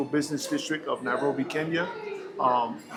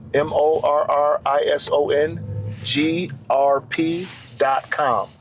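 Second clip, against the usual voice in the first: slow spelled out; 4 dB louder than usual. Shown as a demonstration. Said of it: "That's G as in George".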